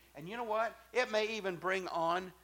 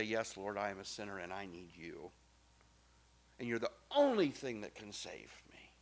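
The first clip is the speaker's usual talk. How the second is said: softer, whispered humble confession; hushed prayer; 6 semitones lower, 7 dB quieter than usual. Acted. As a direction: pray it under your breath.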